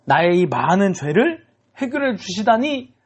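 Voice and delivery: high, gushing acted thanks; overwhelmed gratitude. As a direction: build to an overjoyed, high-pitched thank-you. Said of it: "감격의 눈물을 흘렸을 수도".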